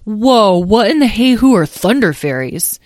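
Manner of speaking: put-on a kid dragon who can't help blurting out; amazed interruption.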